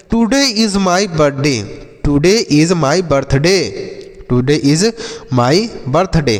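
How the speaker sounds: very slow, every word stretched; slow model sentence. Shown as a demonstration. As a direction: say it slowly so pupils can copy. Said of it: "तो आप बोल सकते हैं". (धीरे-धीरे, शब्द खींचकर)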